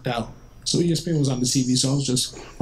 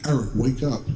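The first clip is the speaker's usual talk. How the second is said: demon voice. Retold or imitated. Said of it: "like a demon".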